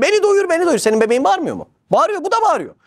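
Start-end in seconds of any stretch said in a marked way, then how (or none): 0.0-0.8 mock shouting. The starving soul demanding food, mock shouting. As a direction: call out like a hungry soul. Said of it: "öyle bir bağırıyor ki".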